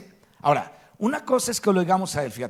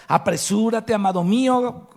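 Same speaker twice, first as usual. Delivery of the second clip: louder and higher, urgently calling the beloved; an impassioned call across the mountains; fervent plea; 5 semitones higher, 6 dB louder than usual. Acted. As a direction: plead for him to hurry. Voicing the bride calling again.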